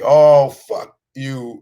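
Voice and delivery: slow sarcastic brush-off; drawn-out mock dismissal. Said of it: "sarcastic white man".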